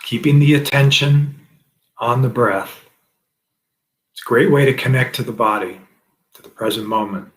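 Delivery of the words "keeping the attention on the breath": slow, measured meditation cues; guided breathing meditation. Acted. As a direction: guide each breath slowly, drawing out the words. Leads a breathing practice.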